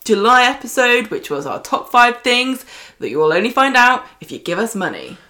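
lightly hyped presenter voice; a hint of showbiz host. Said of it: "Best showbiz voice".

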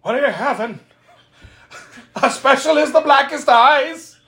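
lightly voiced diner waitress; a hint of waitress voice; mock waitress. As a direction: ask it like a bored waitress. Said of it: "And he's like".

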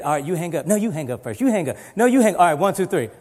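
playful you hang up bickering; teasing sweetheart banter on phone; giggly late night call. Retold or imitated.

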